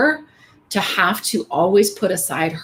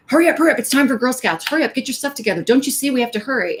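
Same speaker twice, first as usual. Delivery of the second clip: higher, hurried mock nagging at the child; mock rushed yelling; 6 semitones higher, faster than usual. Late mom hurrying daughter to Girl Scouts, mock yell. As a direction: imitate a frazzled mom rushing her kid. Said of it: "me yelling at her to hurry up".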